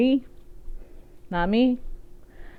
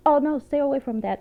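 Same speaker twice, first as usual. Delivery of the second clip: higher-pitched imitation of someone warning; retold warning; 6 semitones higher than usual. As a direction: warn them off, lightly acted. Retelling a lady's warning.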